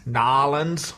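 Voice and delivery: "Nolans" echoed as NAH-lunz; echoed local pronunciation. Retold or imitated. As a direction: try out "Nolans" as two syllables. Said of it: "they actually pronounce it Nolans".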